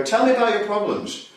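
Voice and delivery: a light hint of a therapist talking down to a patient; barely changed, looking down at a client on the couch; therapist over a lying patient. Shown as a demonstration. Therapist speaking down to a reclining client, lightly voiced. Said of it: "the person lies down lower than you and you go".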